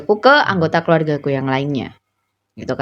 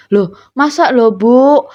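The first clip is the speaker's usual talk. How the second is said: retold incredulous reply, raised and louder; disbelief; 5 semitones higher, 4 dB louder, slower than usual. Worker answering an older colleague, incredulous. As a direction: push it up in mock disbelief.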